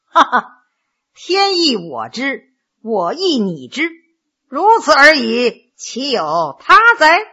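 slow, cold retort after a short laugh; coldly. Acted. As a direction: draw the words out with cool disdain. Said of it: "冷冷地说".

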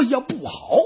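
alarmed cry. Acted. Yuan Shao sees the ambush.

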